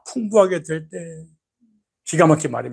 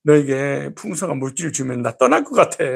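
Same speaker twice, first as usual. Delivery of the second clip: worried God. Retold or imitated. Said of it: "이렇게 하나님 그런 거야".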